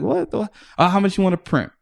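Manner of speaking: a lightly voiced Israeli hustler; Israeli friend impression. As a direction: play the wheeling-dealing Israeli friend. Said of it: "the way the Israelis were".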